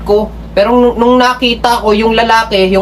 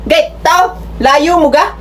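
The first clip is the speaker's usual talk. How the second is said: Batangueño way; 5 semitones higher, slower than usual. Shown as a demonstration. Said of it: "We say".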